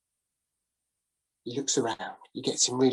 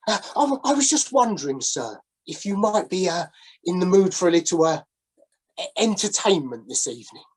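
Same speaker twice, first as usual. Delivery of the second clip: lightly voiced old sailor, wheedling; a hint of a down-on-his-luck sailor sidling up; ingratiating sailor calling from the shadows; shabby old sailor; 4 semitones higher than usual.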